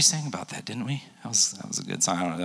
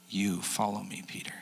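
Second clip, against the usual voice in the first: soft, much quieter command; quiet Jesus; 2 semitones lower, 10 dB quieter than usual. Retold or imitated. Jesus telling Peter to follow, softly.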